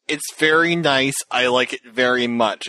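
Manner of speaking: slow, dutiful compliment; polite, bland praise. Retold or imitated. To the friend about a shown thing, mock polite flat praise. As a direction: say it like a polite formality. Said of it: "kinda like Rinna's line".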